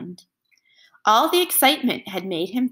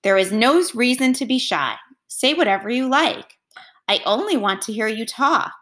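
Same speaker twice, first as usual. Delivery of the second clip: a touch louder, coaxing king; slightly louder voice; 3 semitones higher than usual. Acted. King coaxes the silent melon, a little louder. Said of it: "in a slightly louder voice".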